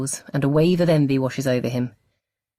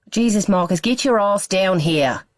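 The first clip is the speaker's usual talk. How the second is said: exasperated shout; 6 semitones higher, 4 dB louder than usual. A narrator's reading. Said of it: "exasperation clear in his voice".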